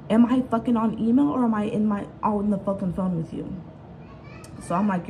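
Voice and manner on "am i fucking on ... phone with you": mock angry caller. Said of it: "So he was like".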